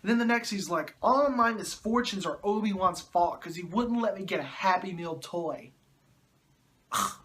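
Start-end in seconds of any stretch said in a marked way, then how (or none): 1.0-5.7 mild mock whining; whiny baby. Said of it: "a whiny little baby". 6.9-7.1 short exasperated ugh; disgusted groan. Real, not acted. Exasperated at Anakin's complaining.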